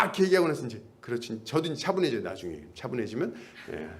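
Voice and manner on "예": calmed reply. Retold or imitated. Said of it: "이렇게 하죠".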